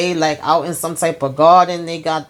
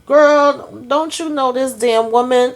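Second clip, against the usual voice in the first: much higher, louder indignant outburst; outraged exclamation; 7 semitones higher, 3 dB louder than usual. Real, not acted. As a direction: call out to the listener in real disbelief. Outraged at the character's behaviour.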